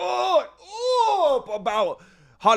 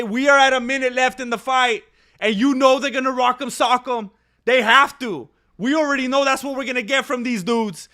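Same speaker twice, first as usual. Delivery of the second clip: hyped up; 3 semitones higher, 4 dB louder than usual. Real, not acted. Final minute of the fight.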